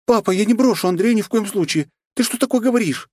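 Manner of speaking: high, indignant outburst. Acted. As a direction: flare up at her father. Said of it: "вскинулась Светлана". (возмущённо вскинулась)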